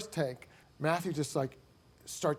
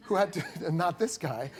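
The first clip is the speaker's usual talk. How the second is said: laughing. Real, not acted. Laughing while telling proud story.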